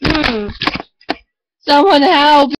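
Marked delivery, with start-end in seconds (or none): 1.6-2.5 mock cry for help. Mock attack by dog.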